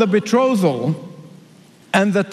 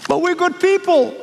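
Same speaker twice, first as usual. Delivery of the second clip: pleading foolish ones; 9 semitones higher than usual. Acted.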